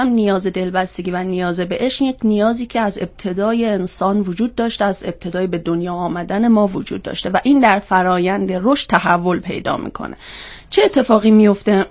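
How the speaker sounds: speaking with a head cold; talking through a blocked nose; stuffy nose. Real, not acted. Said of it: "به خاطر سرماخوردگی که از دیشب".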